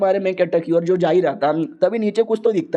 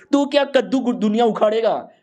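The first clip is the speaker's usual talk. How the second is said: scornful outburst; 5 semitones higher than usual. Acted. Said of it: "अरे इतना क्यों गुस्सा कर रहे हो?".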